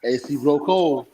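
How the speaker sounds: slow, smooth sales pitch; slick used car salesman. Acted. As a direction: sell the AC like a car dealer. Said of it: "That's that car salesman pitch".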